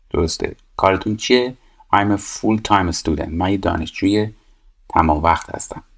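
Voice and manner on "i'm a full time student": 1 slow read-aloud. Shown as a demonstration. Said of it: "reading the exercise aloud".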